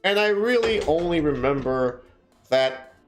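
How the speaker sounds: measured storybook reading voice; story narration. A narrator's reading. Streamer reading her novel aloud to chat, measured narration. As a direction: read it like an audiobook chapter.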